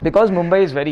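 muffled behind cloth mask; through a face mask. Real, not acted. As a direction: mask over mouth and nose. Seen 2: Fabric mask covers mouth and nose while he speaks.

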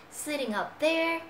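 "sitting up" joined, ng running into up; linked sounds. Shown as a demonstration. Teacher demonstrates the link to class, ng joined to "up". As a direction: link "Sitting up there" smoothly. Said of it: "mình nối ở đây".

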